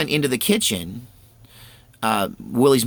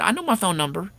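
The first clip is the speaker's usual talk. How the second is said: put-on child's voice; 9 semitones higher, faster than usual. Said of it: "I said".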